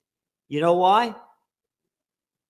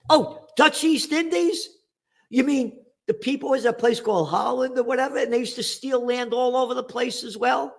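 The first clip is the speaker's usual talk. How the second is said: mock surprise; 5 semitones higher than usual. Mock surprise at Dutch East Indies.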